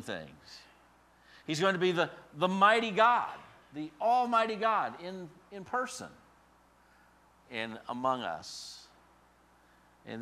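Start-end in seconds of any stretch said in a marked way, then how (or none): 1.5-8.9 higher and louder, proclaiming; rising preaching. Real, not acted. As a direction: exalt the mighty God.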